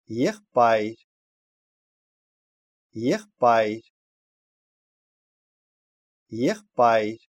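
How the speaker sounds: "Ехпайр" with the written b sounded as p; isolated teaching word, p for b in "Ехпайр"; demonstrated pronunciation. Shown as a demonstration. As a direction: model "Ехпайр" carefully with a p in the middle. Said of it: "«б» произносится «п»".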